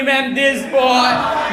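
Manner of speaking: slow shouted snitch through laughter; drawn-out tattle. Retold or imitated. Classmate shouting to ma'am, drawn-out tattle. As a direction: drag the words out to tell on him.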